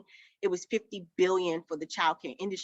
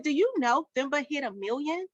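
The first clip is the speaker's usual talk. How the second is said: amazed accountant; 6 semitones higher than usual. Retold or imitated. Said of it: "She said".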